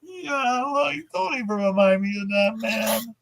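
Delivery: high, loose stoner drawl of a cartoon slacker; Shaggy voice. To the interviewer who brought up the scene, a high Shaggy voice. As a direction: pitch way up and slouch through it like Shaggy.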